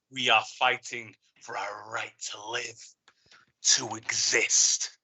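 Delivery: intense, measured oration with weighty pauses; solemn commander rallying the troops; somber rousing speech. Acted. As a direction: deliver a grave, emphatic battle address. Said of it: "I had somber, intense, emphatic".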